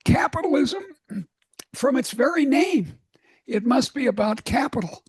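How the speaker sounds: mock-indignant insistence, starting high. Wall Street friends insisting on capital, mock indignant. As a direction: object as if affronted, hammed up a little. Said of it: "they get indignant and say".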